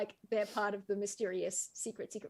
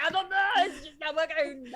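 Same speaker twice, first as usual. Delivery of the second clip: put-on French accent; 5 semitones higher, 4 dB louder than usual. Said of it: "some thick French, French accents".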